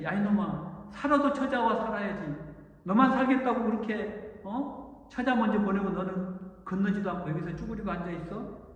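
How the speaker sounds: God scolding a son who hid alone. Acted. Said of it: "하고 야곱을 꾸짖는 거예요".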